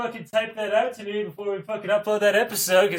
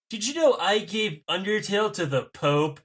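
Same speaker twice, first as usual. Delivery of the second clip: Matt Pat impression. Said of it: "with inflections every other word".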